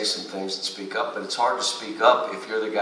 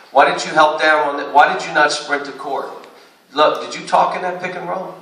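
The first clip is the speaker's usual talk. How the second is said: sharp, louder, higher demand; coach yelling at player; 6 semitones higher, 5 dB louder than usual. Retold or imitated. Coach imitating himself yelling at a player who didn't box out. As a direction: bark the question at a lazy player. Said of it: "coach imitating his own yelling".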